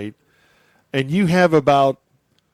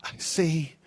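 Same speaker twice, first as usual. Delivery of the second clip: put-on dazed kid voice; 3 semitones higher, 7 dB quieter, much slower than usual. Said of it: "coughed, and said".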